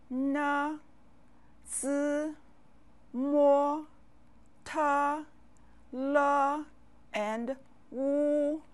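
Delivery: "n, zi, mo, te, le, wu" each held on a high level note; pinyin initials demo. Shown as a demonstration. Teacher modelling the pinyin initials for learners, "n, zi, mo, te, le, wu" high and drawn out. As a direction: sound out "n, zi, mo, te, le, wu" separately, high and steady. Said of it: "The initials are".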